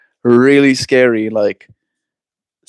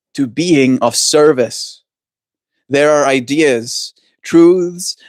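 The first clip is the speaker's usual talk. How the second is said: card reading; 2 semitones higher than usual. Acted. Reads tarot card text aloud.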